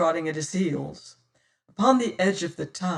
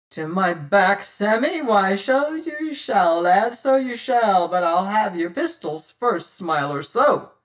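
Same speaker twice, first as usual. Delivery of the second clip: pirate captain; 3 semitones higher, 6 dB louder than usual. Acted. Captain mocking Sam while disarming him, loud. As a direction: pretend to agree, then take his pistols.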